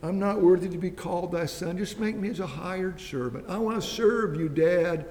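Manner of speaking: the son's plea, rising to a high, loud, tearful-sounding cry; humble son pleading. Retold or imitated. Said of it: "his attitude is".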